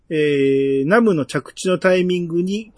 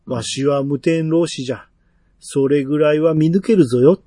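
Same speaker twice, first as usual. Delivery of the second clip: put-on creaky wise old man; 2 semitones lower than usual.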